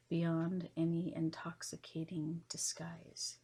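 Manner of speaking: measured poem recital in spaced phrases; poetry reading. Acted. Host reading esoteric poetry to listeners, measured poetry reading. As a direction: read each line of verse with pauses between. Reads her second poem.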